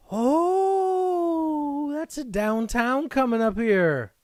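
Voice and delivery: high, loud thrilled cry at the pull; oh, a real rush of excitement; shrieking with real delight; excited gasp. Real, not acted. Spots a big hit card.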